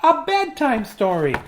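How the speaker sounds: high little chick asking; little chicken voice. Acted. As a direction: beg sweetly in a high chick voice. Chicken asks for story.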